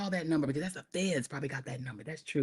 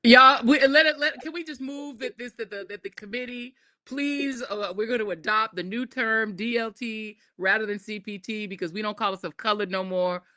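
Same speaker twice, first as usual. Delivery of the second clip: mock formal motion. Mock committee motion speech.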